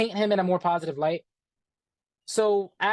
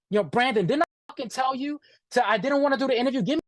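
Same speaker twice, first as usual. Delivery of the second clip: pitched up, a mild mock yell at Brandon; retold yelling; 4 semitones higher than usual. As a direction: imitate the boss going in on him, without much volume. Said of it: "He starts yelling at me".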